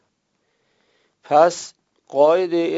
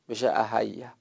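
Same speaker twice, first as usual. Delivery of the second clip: whispered aside; 6 dB quieter than usual. Real, not acted. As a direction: breathe "بشه احیا" as an unvoiced whisper. Aside while explaining the form.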